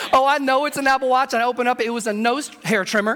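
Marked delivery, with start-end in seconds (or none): 0.1-1.3 livelier, raised mock-confident guess; excited anticipation. Husband opening his wife's small package, openly excited. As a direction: let the hope build as you repeat it.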